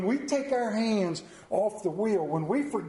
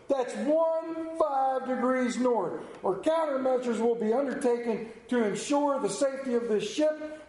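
tense captain; 2 semitones higher than usual. Retold or imitated. Ship captain threatens the lighthouse voice in a tense, stiff tone. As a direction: act the puffed-up navy captain, slowing on the demand. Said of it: "the captain is wound tight".

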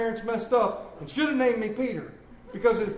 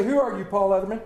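quick rebuke; faster than usual. Retold or imitated. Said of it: "When I say".

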